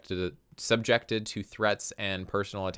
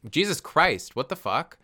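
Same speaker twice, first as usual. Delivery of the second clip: shocked outburst; 8 semitones higher, 3 dB louder than usual. Real, not acted. Shocked while reading the article.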